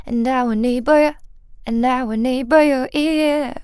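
"nibble" with a clearly sounded b. Shown as a demonstration. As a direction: make the b in "nibble" pop. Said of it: "这个B一定要发出来". (把nibble的B发出来)

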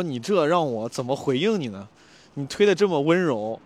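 slow, teasing mock concern. Narrator teasing the man who shoved him, slow and mocking. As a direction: tease him about the feeble push.

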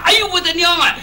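startled cry. Acted. Scared on entering bath.

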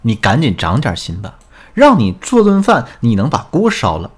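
mildly angry acted scolding; annoyed retort. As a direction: tell him off, leaping up midway. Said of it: "我一听这话我就来气了". (模仿妻子来气地责备)

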